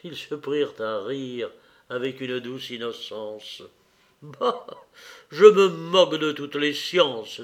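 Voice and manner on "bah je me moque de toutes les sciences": louder, a carefree outburst; exclaiming. Acted. Raphaël to Pauline, exclaiming loudly that he scorns science. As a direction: toss the sciences away with a loud cry. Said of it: "s'écria Raphaël".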